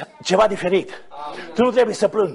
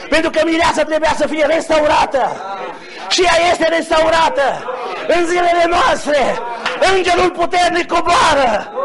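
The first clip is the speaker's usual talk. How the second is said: raised, ringing proclamation; fervent preaching; 5 semitones higher than usual. Real, not acted. Preacher announcing the bride's restoration to the congregation, fervent preaching. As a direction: build to a preacher's shout.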